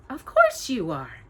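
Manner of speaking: a light, cheerful godmother; cheerfully assuring. Acted. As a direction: brush her doubt aside. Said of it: "the woman assured her cheerfully".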